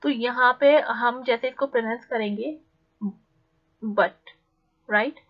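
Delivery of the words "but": BUT said lightly, without stress; unstressed BUT. Shown as a demonstration. Teacher shows learners the short syllable, unstressed BUT. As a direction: let BUT drop, no weight on it. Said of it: "बहुत ज़्यादा stress देने की ज़रूरत नहीं".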